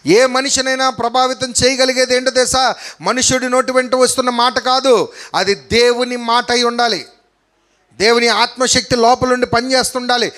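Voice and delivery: sustained, insistent pulpit delivery; emphatic preaching. Real, not acted. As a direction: preach it with conviction.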